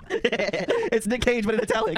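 high laughing rant; escalating comedy rant. Real, not acted. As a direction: laugh it out, building. Mocking comparison, building laughter.

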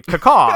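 loud mock raven caw with falling pitch. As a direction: squawk out a falling bird cry. Imitates raven cry in hashtag.

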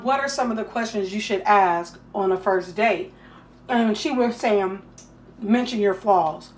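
talking while eating; words round a bite of food; mouth full. Real, not acted. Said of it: "I'm sorry I'm eating".

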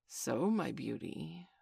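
slow, sugary and sly; syrupy. Acted. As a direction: drip it like syrup. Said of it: "as if he spoke in syrup".

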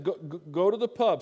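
loud, repeated go, punching pub; emphatic. Shown as a demonstration. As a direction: declare it without apology. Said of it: "I said".

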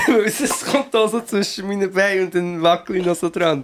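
giggling through the words; laughing. Real, not acted. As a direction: speak while laughing. Laughing through silly story.

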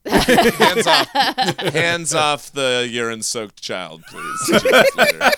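hammed-up yell at him; mock yell. Mock shouting at character.

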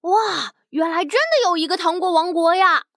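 put-on wide-eyed child in wonder; a little girl gasping at wonders; amazed little girl. Tongtong amazed in candy kingdom.

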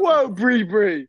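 slow, stretched surprised whoa. Real, not acted. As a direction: react to the yelling, amazed. Reacting to the yelling.

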